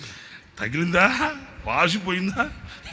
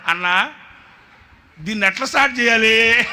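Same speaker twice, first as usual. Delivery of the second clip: higher, louder innocent asking; boy's clueless question; 7 semitones higher, 8 dB louder than usual. Retold or imitated. Boy asking how to start the generator, helpless. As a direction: sound helpless and puzzled. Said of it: "ఆడు".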